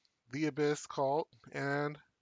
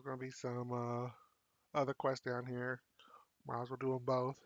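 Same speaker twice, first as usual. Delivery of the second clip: whisper; 3 semitones lower, 6 dB quieter than usual. Real, not acted. Muttering to himself while playing.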